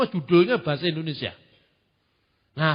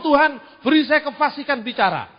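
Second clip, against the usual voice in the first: mock prayer; 3 semitones higher than usual. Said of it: "Saya ngomong".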